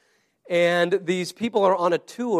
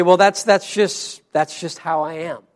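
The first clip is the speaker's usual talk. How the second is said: defeatist resignation. Retold or imitated. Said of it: "this defeatist attitude".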